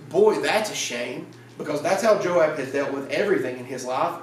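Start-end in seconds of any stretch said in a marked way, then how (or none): 0.1-1.3 slow, offhand fake pity; mock regret. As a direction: say it like you couldn't care less, slowly. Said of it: "Joab goes".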